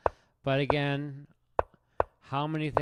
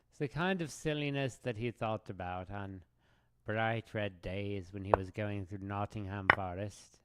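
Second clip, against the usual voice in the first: Winnie the Pooh narration. Pretend. Streamer musing on his play like a Pooh storybook narrator. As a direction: narrate like a whimsical children's book. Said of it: "a Winnie the Pooh kind of thing".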